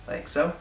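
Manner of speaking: S made with the tongue between the teeth in "like so"; interdental lisp. Shown as a demonstration. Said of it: "the sound is made with the tongue between the teeth".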